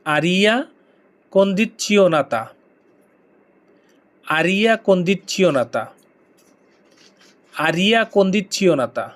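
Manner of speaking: very slow, syllable by syllable: condizionata; slow pronunciation demo. Shown as a demonstration. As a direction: spell out aria condizionata slowly for learners to repeat. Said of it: "আমার সাথে সাথে উচ্চারণ করতে হবে". (ধীরে ধীরে উচ্চারণ করে দেখানো)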